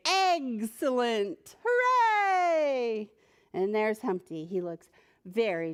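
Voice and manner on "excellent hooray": high, slow joyful cheer; king's men cheering, high and excited. Acted. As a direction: celebrate the rescue. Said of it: "They say".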